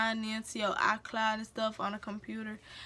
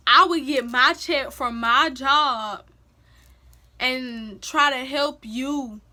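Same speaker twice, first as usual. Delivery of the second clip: a retold tirade at the boyfriend, raised and fed up; heated retold confrontation; 3 semitones higher, 6 dB louder than usual. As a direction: lay into him like you're done taking it. Confronting abusive boyfriend in retelling.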